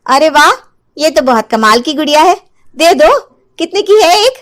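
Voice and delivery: keen to buy the magic doll; eager housewife. Acted. (उत्सुक, ऊँची आवाज़ में खुश गृहिणी)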